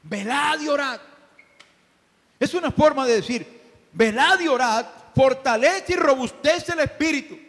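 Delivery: high, loud, ringing pulpit voice; full-force preaching. Acted. Pastor exhorting the church to pray, full-force preaching. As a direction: preach it out to the back row.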